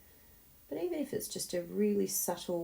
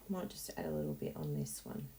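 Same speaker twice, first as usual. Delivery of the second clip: whispered; 7 dB quieter than usual. Real, not acted. Quiet aside.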